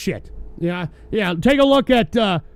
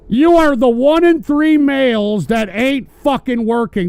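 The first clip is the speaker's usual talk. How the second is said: pointed and louder, jabbing at the chatter; louder accusation; 2 semitones higher, 5 dB louder than usual. Real, not acted. Host scolding jobless chatters, raised voice. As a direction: hammer the line home at the viewer. Rant repeated with more force.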